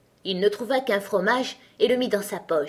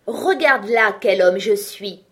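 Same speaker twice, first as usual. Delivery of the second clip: boastful; 6 dB louder than usual. Acted. Tailor boasting to giant.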